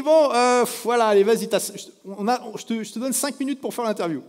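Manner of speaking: plus aigu et plus fort, soupir las; céder à contrecœur en soufflant; concession agacée imitée. Retold or imitated. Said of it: "Et il me dit". (l'expert accorde cinq minutes, à contrecœur)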